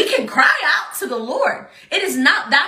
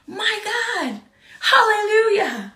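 exclamation; 9 semitones higher, slower than usual. Real, not acted. Exclamation in sermon.

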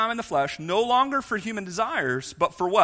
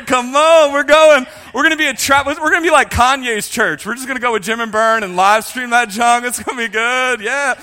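excited invitation; 2 semitones higher, 7 dB louder than usual. Pretend. Preacher jokingly rallying church for the RV trip, excited. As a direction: hype everyone up to come along.

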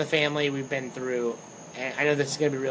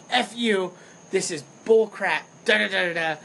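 mock outburst; 4 semitones higher than usual. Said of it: "I was freaking out".

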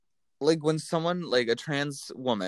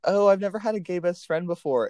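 higher-pitched mocking mimicry; mimicked girly gushing; 5 semitones higher than usual. Imitating white girls meeting a gay person, mocking. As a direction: lift it into a mock-excited girl voice.

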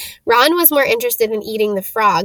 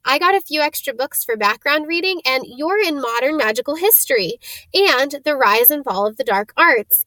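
fast; 5 semitones higher than usual. Acted. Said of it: "She said all this very fast".

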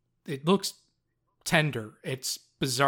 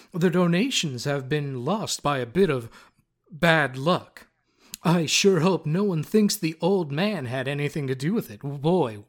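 read diary in the bard's voice; 4 dB louder than usual. Acted. GM reading the bard's diary to the players, slightly raised character voice. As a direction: read it as the smug bard dropping veiled threats. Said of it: "read the passage from the diary".

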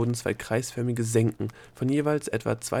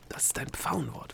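higher, conspiratorial whisper; 5 semitones higher, 8 dB quieter than usual. A narrator's reading. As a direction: whisper it to your partner. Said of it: "flüsterte Delia ihm zu".

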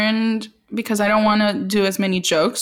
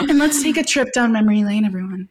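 calm crisis counselor. Acted. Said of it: "This is my therapist's voice".

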